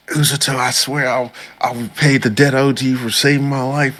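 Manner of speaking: lightly squeaky grateful heroine. Retold or imitated. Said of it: "She's like".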